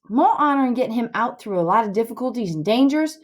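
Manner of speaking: lively storytelling in folksy dialect; animated story reading. Acted. Tom lectures Huck on the proper prison escape, animated story reading. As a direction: read it as a boy's eager scheming. Reads novel's boys aloud.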